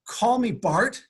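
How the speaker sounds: stunned disbelief. Retold or imitated. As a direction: repeat it like you can't believe it. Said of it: "I about fell off my chair".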